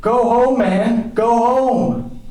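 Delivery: high, loud dismissal; exasperated order. Acted. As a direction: send him packing, at the end of patience. Exasperated order after a slap.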